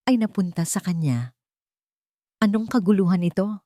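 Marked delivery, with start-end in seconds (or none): 2.4-3.6 cold voice. Acted. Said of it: "Ang boses ay malamig".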